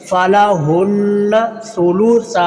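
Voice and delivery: फ़लाहुन्ना सुलुसा recited slowly, last saa held; lengthened final sa. Shown as a demonstration. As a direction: stretch the end of सुलुसा. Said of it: "दूसरे सा को लंबा करना". (सुलुसा का आख़िरी 'सा' लंबा)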